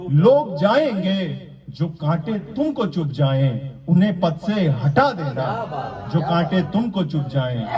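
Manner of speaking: measured declamation with pauses between phrases; mushaira-style verse recitation; poetry recital. Acted. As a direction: recite the couplet to an audience, landing each phrase.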